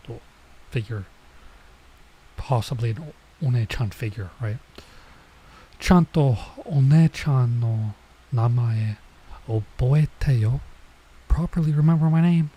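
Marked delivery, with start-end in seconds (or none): 5.8-12.5 put-on mild scolding older girl.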